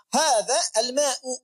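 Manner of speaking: al-ma'u slowed, ending on a clear u. Shown as a demonstration. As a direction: say al-ma'u with dhammah u. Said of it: "pakai U". (al-ma'u diucapkan pelan berakhiran u)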